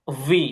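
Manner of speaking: ভি, half v, half w; V like waw. Shown as a demonstration. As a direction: say ভি rounding the lips like waw. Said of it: "ওয়াও এর মতো হচ্ছে উচ্চারণটা আসবে".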